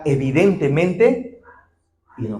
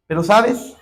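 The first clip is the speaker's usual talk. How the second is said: ordinary delivery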